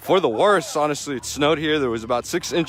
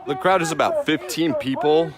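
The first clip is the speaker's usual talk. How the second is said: anchor voice. Pretend. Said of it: "What if I did an anchor voice?".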